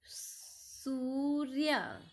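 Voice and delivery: सूर्य stretched out, half र before य; very slow demo. Shown as a demonstration. Teacher reading a new word to pupils, very slowly. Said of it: "देखिए".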